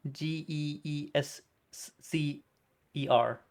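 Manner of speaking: slow, halting letter-by-letter spelling. Real, not acted. Streamer working out how geezer is spelt, slow spelling.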